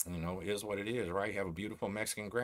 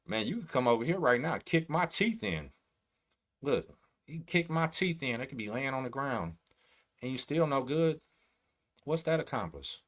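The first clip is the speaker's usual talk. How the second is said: heated challenge; 4 semitones higher than usual. Real, not acted. Challenging rival to fight.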